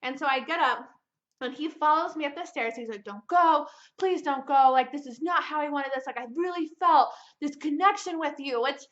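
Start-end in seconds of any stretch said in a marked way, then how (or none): 3.0-8.6 pleading. Retold or imitated. He begs her to stay.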